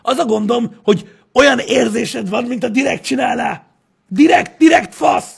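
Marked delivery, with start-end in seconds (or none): 4.1-5.4 high, loud exasperated yell; mock angry shout. Venting about accents, a loud mock-angry yell. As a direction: snap it out in fake fury.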